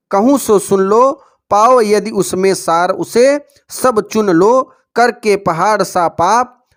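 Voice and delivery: slow, drawn-out poem reading; verse recitation. Acted. Teacher reading a verse from the question paper, slow recitation. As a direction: recite the verse slowly, stretching each phrase.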